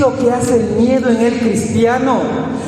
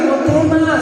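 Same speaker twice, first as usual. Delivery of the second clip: "No temas" pitched up, pressed and firm; a raised, urgent "No temas"; firm raised reassurance; 5 semitones higher than usual. Retold or imitated. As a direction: insist over the worried voice. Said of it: "les dio palabra".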